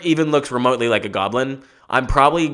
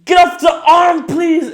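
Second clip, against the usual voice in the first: very high, loud strained voice; hammed-up falsetto ow; high pained yelp; 6 dB louder, slower than usual. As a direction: squeak through the pain. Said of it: "you're like".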